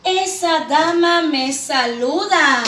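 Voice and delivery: "Esa dama me saluda" read slowly as one phrase; whole sentence slow and clear; smooth reading. Shown as a demonstration. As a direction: read it joined, a bit slow. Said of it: "Punto final".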